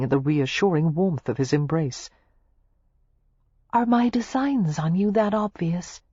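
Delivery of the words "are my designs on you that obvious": muffled against his chest. A narrator's reading. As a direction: speak muffled into his coat. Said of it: "she asked in a muffled voice".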